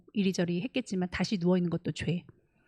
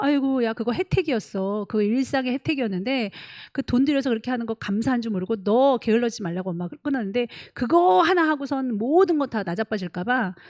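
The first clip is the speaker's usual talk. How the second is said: scolding mother; 3 semitones higher, 3 dB louder than usual. Retold or imitated. Mother scolding daughter, retold.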